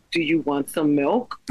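put-on kid's copy with a laugh; laughing while quoting the child. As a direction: laugh through the toddler's parroted question. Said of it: "he would go".

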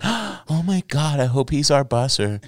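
put-on high, drawn-out gushing girl voice; swooning girls. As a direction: mimic smitten girls, slow and high-pitched. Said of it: "Girls would come in and be like".

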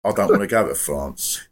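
lightly voiced caller, reasoning it out; imitated radio caller. Imitating the caller answering James, lightly acted reply. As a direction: put on the caller's untroubled comeback. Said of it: "I'm doing the act, but I think he did talk like this".

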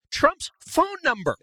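high, slow and stretched out; can't believe what he's hearing; incredulous. Real, not acted. Host stunned that the lobbyist got Trump's phone number, echoes it in high, slow disbelief.

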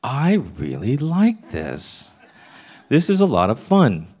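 slow, dreamy delight; mildly dazed pleasure; blissed-out. Retold or imitated. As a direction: drift through it, enjoying it. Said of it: "all of a sudden I'm like".

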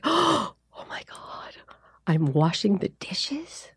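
slow, hushed whisper of wonder; slow amazed whisper at the dishes; awed whisper. Retold or imitated. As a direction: breathe it like a revelation. Awed realization at the sink.

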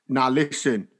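low-pitched Cockney telling-off; Cockney John. Acted. Imagining him lecturing laughing schoolboys, low Cockney accent. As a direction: drop the pitch, stern mock Cockney. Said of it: "to what Cockney John would have said".

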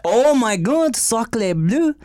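self-mocking put-on French accent. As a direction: exclaim in a fake French accent. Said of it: "Our perfect accents we had".

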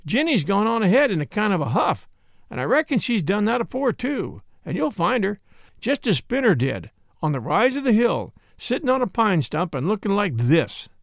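lightly voiced bossy country girl. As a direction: rattle it off as a pert mountain girl. Dill instructs the young man.

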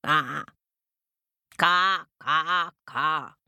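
drawn-out cawing; crow call. Acted. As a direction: caw out to the nest. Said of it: "called the crow".

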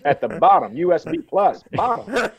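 loud, high hammed-up hick voice; hick shopkeeper. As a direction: play a clueless small-town clerk. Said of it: "And it's like".

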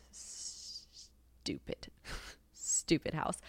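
slow whisper to herself; slow unvoiced whispered gripe; whispered grumble. Real, not acted. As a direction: hiss it under your breath, fed up. Grumbling about her Nashville house.

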